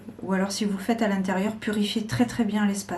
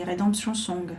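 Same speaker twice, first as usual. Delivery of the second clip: English title in a heavily French accent; clumsy English accent; 2 semitones lower than usual. Real, not acted. Card reader naming a song, clumsy English accent. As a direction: attempt English with French sounds. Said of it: "Avec mon superbe accent anglais".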